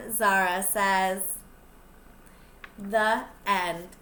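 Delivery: lively storybook reading; picture book read-aloud voice; reading to children. Acted. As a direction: read it out to the little ones, bright and clear. Teacher reads picture book aloud.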